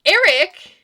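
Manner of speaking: a sudden, high, loud scream of his name; anguished cry. Acted. Heroine sees Eric impaled.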